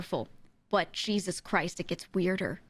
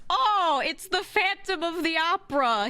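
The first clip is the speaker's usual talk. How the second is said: high, louder big reveal; mock dramatic reveal; 9 semitones higher, 4 dB louder than usual. Real, not acted. Telling viewers who runs the circus, dramatic reveal. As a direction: announce the twist with flair.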